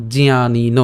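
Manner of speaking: জিয়ানিন with a nasal ইয় after জ; জিয়ানিন pronounced jiya, ইয় nasalised; nasal ya sound. Shown as a demonstration. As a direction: say জিয়ানিন as jiya-nin, the ya through the nose. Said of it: "ইয় এর উচ্চারণটা আমাদের নাকে উচ্চারিত হয়".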